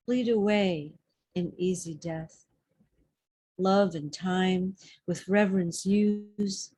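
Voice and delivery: measured, pausing verse recital; deliberate poetry reading with weighted phrases; poem reading. Acted. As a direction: read verse aloud, resting at each line end. Reads a poem aloud.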